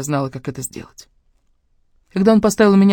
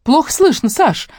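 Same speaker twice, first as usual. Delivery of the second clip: worried mother; 11 semitones higher, 4 dB louder, slower than usual. A narrator's reading. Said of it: "обеспокоенно заметила она".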